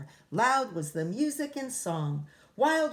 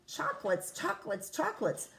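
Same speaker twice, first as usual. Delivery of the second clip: cave echo; 2 semitones higher than usual. Acted. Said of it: "the voice from the cave replied".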